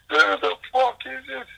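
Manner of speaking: high, slow mock squeak. Demanding to know who's on the poster, high and slow. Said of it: "he goes".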